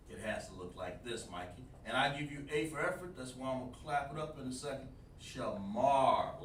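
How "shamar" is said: "Shamar" said clearly with a falling end; model shamar. Shown as a demonstration. Teacher gives the class an example word, clearly spoken. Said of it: "like that".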